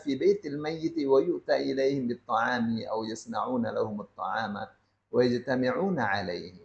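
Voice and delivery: measured formal reading of a classical Arabic passage; Arabic text recitation. Acted. Teacher reads the Sheikh's Arabic passage to the congregation, measured recitation. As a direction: read the Arabic text aloud steadily, as from the book.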